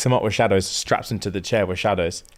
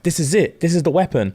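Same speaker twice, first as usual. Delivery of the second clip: higher-pitched acted insistence; excited discovery; 6 semitones higher than usual. He takes the weapon, excitedly insisting. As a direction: lift the pitch as if presenting proof.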